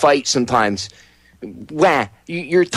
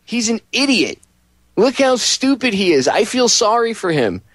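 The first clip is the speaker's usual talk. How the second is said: raised, mocking pity for a fool; pitying scorn; 9 semitones higher, slower than usual. Telling the friend to let the driver go, pityingly. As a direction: talk down on him with pity, raised. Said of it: "I said".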